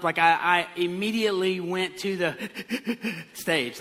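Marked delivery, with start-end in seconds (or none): 2.6-3.3 mimicked choking sobs; short, stuttering mock gasps; choked-up gasping. Preacher showing how choked up they got, gasping in imitation. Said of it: "like, getting choked up".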